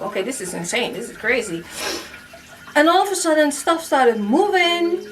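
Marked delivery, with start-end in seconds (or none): 0.0-1.6 low, softer disbelieving murmur; saying it under her breath; quiet disbelief. Retold or imitated. To herself as the cat panics, low and hushed. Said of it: "I was like".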